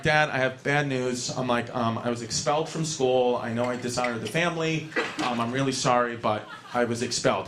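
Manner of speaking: a touch of sheepishness, voice kept down; mildly contrite confession. Retold or imitated. Son confesses expulsion to his father, mildly contrite.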